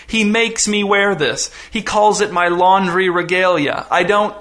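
mildly pleading, pitch climbing toward the end; acted shame, a touch of anguish; choked with humiliation. Humiliated dad begs his daughters not to feel guilty, choked. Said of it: "his voice choked with humiliation".

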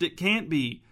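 stunned disbelief, voice rising; shocked, can't believe it; astonished gasp. Acted. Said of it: "Sam gasped".

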